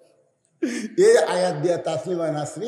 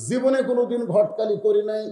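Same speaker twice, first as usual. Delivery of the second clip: raised declaration; 3 semitones higher than usual. Retold or imitated. Umar promising the girl to be matchmaker, raised declaration. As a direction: voice lifted in a preacher's ringing declaration.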